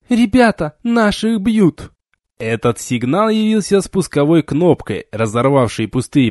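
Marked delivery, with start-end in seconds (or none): 0.1-1.9 bellowed rallying cry. A narrator's reading. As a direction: call the troops into the brawl. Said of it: "заорала".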